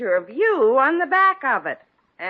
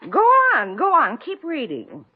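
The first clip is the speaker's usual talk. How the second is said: eager urging; 3 semitones higher, 4 dB louder than usual. Acted. Eager for her to keep reading.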